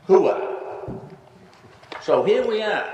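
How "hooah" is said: a clipped, breathy army grunt of assent; military hooah. Retold or imitated. Retelling how the commander answered his request, a short army hooah. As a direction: bark it like a soldier saying yes.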